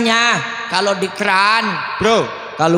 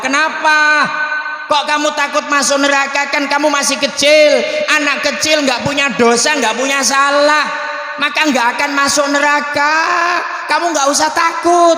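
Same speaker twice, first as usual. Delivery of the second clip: higher, emphatic reassurance; acted grandpa, insistent and animated; reassuring grandfather; 5 semitones higher than usual. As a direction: talk a frightened child out of the fear. Grandfather reassures the crying child.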